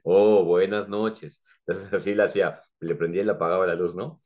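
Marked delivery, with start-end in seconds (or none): 0.0-1.4 slow teaching goodnight. Shown as a demonstration. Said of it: "Y le digo".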